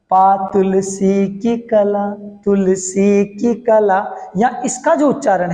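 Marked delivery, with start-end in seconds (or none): 0.1-4.0 की said short and light, slow recital; short की in recitation. Shown as a demonstration. Teacher reciting the line to show short की. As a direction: recite तुलसी की कला with a quick की. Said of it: "अब यहां सुना".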